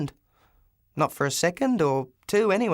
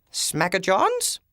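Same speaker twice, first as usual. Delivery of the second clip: stern snap; 3 semitones higher, much slower than usual. Acted. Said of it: "snapped a voice from behind me".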